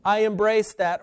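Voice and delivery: a hint of a fervent believer declaring; believer's confession. Believer voicing an embrace of Jesus' claims, lightly voiced fervor. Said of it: "for him and say".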